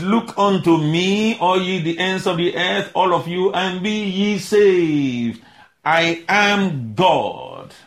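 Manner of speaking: very slow, weighty proclamation; emphatic. Acted. Preacher declaring God's words, very slow emphatic. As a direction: stretch each word out like a decree.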